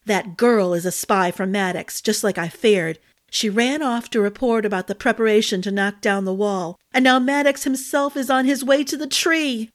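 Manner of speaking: a hint of alarm as she reports; worried fairy. Glinna warns Ambrose about Maddox, lightly worried fairy voice.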